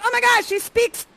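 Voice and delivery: high-pitched giddy exclamation; mock amazement. Ferdy overwhelmed that she speaks his language, mock amazement. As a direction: squeal it like a smitten prince. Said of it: "You're like".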